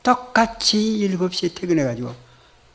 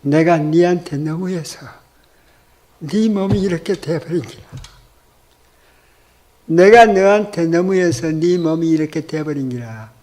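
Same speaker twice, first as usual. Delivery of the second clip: husband's tearful confession in a Gyeongsang dialect; Gyeongsang accent. Retold or imitated. Husband to sick wife, in a Gyeongsang accent. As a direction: speak it the way a Gyeongsang man would. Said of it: "경상도 남자 말투입니다".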